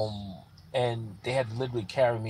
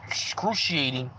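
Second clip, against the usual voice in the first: pained whisper; slower than usual. Retold or imitated. Describing back pain at the station.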